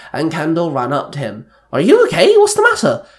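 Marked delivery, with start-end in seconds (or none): 1.7-3.1 high, loud burst of alarm; barked questions. A narrator's reading. Wife to her stumbling husband, barking urgent questions. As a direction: bark it out, pitch shooting right up. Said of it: "Kendall barked".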